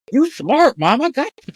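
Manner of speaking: very high, gleeful approval; delighted praise. Retold or imitated. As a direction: cheer her clever plan. Praising mom's clever advice.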